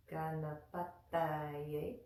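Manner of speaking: "Ganapataye" slowly, tongue on the back of the front teeth for t; tongue-to-teeth sound. Shown as a demonstration. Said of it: "just like we did with".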